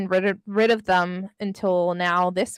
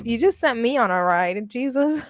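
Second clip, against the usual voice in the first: ordinary talk, nothing marked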